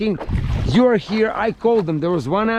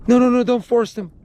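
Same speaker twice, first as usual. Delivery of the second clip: higher mock pleading; mother's pleading; 6 semitones higher than usual. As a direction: imitate her frantic no no no. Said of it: "the mommy flips".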